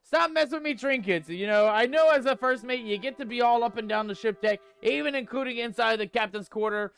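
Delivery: mock-panicked pirate captain scolding the crew; lightly voiced pirate scolding a first mate over trinkets; hammy pirate rant. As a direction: ham up a cursed pirate, "matey" tacked on. Pirate persona blames ghost curse.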